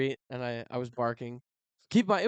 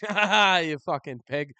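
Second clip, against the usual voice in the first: loud mocking laugh, higher; 6 semitones higher, 8 dB louder than usual. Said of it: "And he was like".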